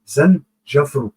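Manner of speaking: Zanjafru said very slowly; teacher slowly repeating the Arabic color word. Shown as a demonstration. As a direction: draw Zanjafru out. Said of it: "en arabe".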